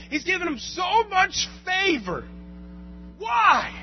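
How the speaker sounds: high, loud protest building to a yell; mock indignant complaint. Preacher replaying his envy of Abraham, mock indignant. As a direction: whine upward into an outraged, hammed-up shout. Acted envious complaint while reading.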